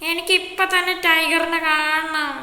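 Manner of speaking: put-on slow, drawn-out kid insisting; whiny demand. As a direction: stretch every word like a demanding child. Kid demanding to see Tiger.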